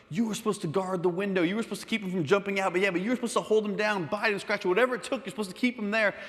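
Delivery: mock-angry tirade, piling up accusations; furious blaming. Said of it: "everyone was furious with each other".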